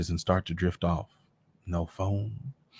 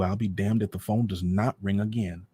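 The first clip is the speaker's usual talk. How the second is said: plain reading voice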